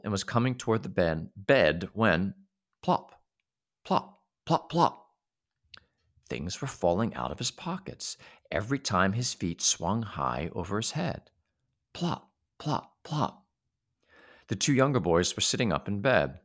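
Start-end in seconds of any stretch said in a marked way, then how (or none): 2.8-5.1 high plop sounds; sound effect. Acted. Narrator voicing things dropping. 11.9-13.5 high plop sounds; sound effect. Acted. Narrator voicing things dropping.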